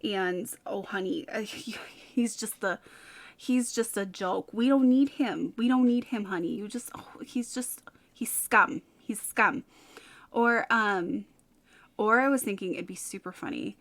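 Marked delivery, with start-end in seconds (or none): 0.7-9.6 hammed-up New York gal comforting a client; New York accent. Shown as a demonstration. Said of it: "a little bit of a New York".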